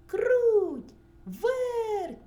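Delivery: high, loud drawn-out rooster call. A narrator's reading. Rooster calls two little mice, calling out. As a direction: sing the names out loud, falling at each end. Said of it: "покликав півник".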